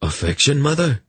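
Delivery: a light, teasing question rising high at the end. A narrator's reading. Son teasing his mother about her embrace, lightly. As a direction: tease her gently. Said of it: "he asked lightly".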